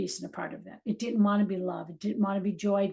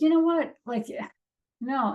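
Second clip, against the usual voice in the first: dismissive; 5 semitones higher than usual. Retold or imitated. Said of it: "And I was like".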